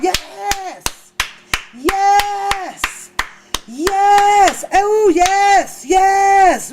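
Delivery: building shouted church yeses; churchgoers shouting yes. Retold or imitated. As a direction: call out yes like the spirit hit you. Mimics church folk standing up.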